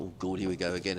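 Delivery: resigned inward aside. Retold or imitated. Weary thought at being recognised.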